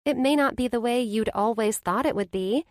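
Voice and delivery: high, reassuring friend's voice; best friend, kind and sure; comforting Blair. A narrator's reading. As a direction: ease her friend's guilt.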